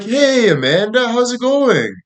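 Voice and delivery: hammed-up, very high phone hello; mock-flirty high singsong greeting. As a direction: pitch it way up, acting sweet on her. Acted flirty phone call to agent.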